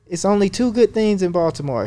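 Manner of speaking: a hint of the puzzled doctor's voice; imitating the Asian doctor. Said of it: "he was an Asian doctor".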